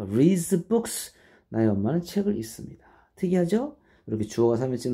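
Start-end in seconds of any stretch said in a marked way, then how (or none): 0.0-0.7 "reads" with a z sound at the end; reads pronunciation. Shown as a demonstration. Teacher showing students the third-person verb, "reads" ending in z. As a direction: say "reads" slowly, closing on z. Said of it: "reads라고 읽어".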